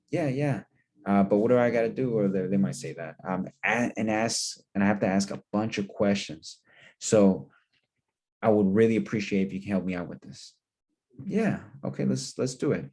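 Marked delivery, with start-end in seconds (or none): 0.1-2.2 cousin's reply. Acted. Cousin's reply acted in role-play. 11.2-12.8 higher, breezy cousin voice; cousin agreeing. Acted. Cousin agreeing to the caller's meeting, higher and breezy.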